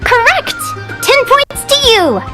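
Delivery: high, drawn-out congratulation; quiz-host cheer. Acted. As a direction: award points like a game-show host. Quiz host rewards right answer.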